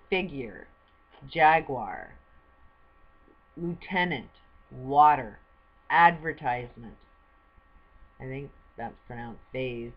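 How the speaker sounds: loud, slow word-by-word reading of each word; careful pronunciation demo. Shown as a demonstration. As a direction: sound out every word for the viewer. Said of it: "help you pronounce it".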